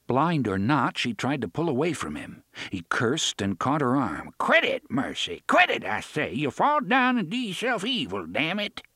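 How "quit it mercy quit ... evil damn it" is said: angry yell. A narrator's reading. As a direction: yell it at her, fed up. Man yelling at struggling wife.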